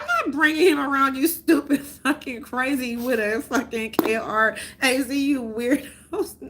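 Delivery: giggling scold; laughing. Real, not acted. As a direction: laugh while spelling it out. Telling off family, laughing.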